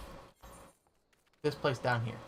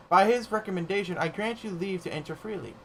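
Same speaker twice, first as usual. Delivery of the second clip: lightly voiced grave gatekeeper, ceremonial; a hint of a stately keeper of ruins; solemn gatekeeper; 6 semitones higher, 4 dB louder than usual. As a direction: announce it like an old guardian at a gate.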